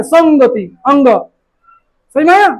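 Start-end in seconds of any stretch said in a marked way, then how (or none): 0.0-0.7 संगति said "sang-gati"; back-of-mouth ng in संगति; nasal ng sound. Shown as a demonstration. Teacher points to the nasal letter, संगति with ng. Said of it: "ये अंगा वाला आता है ना".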